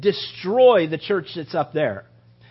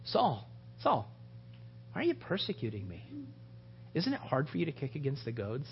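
soft, low, conversational Jesus; just talk it, no boom; plain talking Jesus; 5 semitones lower, 13 dB quieter than usual. Shown as a demonstration. Preacher voicing Jesus calmly to Saul, quiet. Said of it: "just talking like I am right now".

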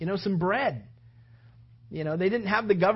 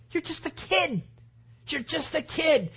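incredulous protest; 8 semitones higher than usual. Acted. Brothers protest David's offer to fight.

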